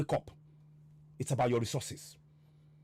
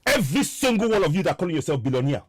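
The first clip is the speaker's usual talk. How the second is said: loud, indignant call-out; real angry challenge; heated rebuke; 3 semitones higher, 5 dB louder than usual. Real, not acted. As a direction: take the billionaires to task loudly. Heated rebuke of billionaire listeners.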